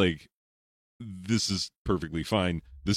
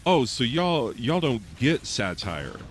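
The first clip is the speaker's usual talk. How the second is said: mock smug Swift; 4 semitones higher, slower than usual. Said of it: "He was like".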